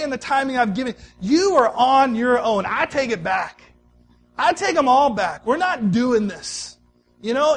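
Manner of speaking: a fed-up God throwing up his hands; imitating an exasperated God scolding Abram and Sarah; voicing an angry God. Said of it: "I'd looked at Abram, I'd looked at Sarah and said".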